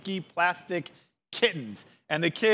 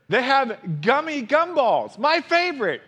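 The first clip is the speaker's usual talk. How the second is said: put-on much higher, whiny kid voice; whining little sister; 8 semitones higher, 3 dB louder than usual. A narrator's reading. Sister cub begging Mama for gumballs, whiny. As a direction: wheedle like a small cub wanting candy. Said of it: "whines sister".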